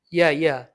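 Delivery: ইয়া said twice with an initial y sound; teacher repeating ইয়া, y-glide first. Shown as a demonstration. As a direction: model German J as a y in ইয়া. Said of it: "ইয়টের উচ্চারণ ওয়াইয়ের মতো".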